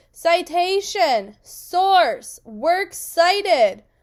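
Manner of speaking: very slow, very loud, drawn-out shout. Leading learners in repeating the words for the neighbor to hear: even louder, yelling. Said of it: "so say it even louder".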